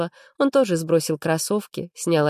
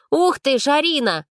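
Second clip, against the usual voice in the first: put-on much higher, louder kid voice; amazed boy; 9 semitones higher, 3 dB louder than usual. A narrator's reading. Little brother thrilled by sister's secret, higher kid voice. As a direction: gasp in delight at the news.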